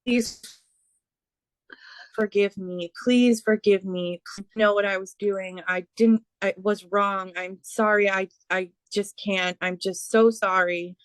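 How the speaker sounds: relayed plea for forgiveness, lightly acted; a touch of begging, imitating someone asking forgiveness; mild pleading. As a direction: plead gently, with halting pauses at first, then apologies tumbling out. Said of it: "begging, like, "Please".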